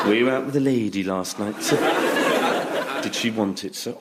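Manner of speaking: leering, laughing through it; sly innuendo to a customer; suggestive tailor. Retold or imitated. Tailor to customer, sly laughing innuendo. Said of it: "he would say".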